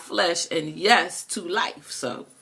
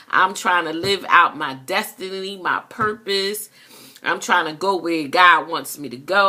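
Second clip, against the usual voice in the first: fervent vow; 2 semitones higher than usual. Acted. Believer vowing to live out her destiny, fervent. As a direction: declare it like a solemn promise to God.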